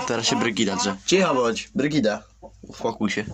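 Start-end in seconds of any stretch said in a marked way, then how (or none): 1.1-3.2 telling the squawking hen to shut up, raised and sharp; scolding hen. Real, not acted. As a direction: snap at her to hush.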